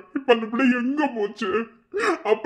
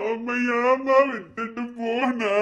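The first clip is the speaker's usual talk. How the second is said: 1 slow grieving plea; slower than usual. Acted. Son grieving to his dead mother.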